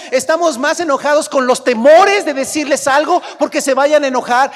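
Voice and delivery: preacher rebuking the congregation; fervent preaching. Real, not acted. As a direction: preach it at full force. Preaching at full force.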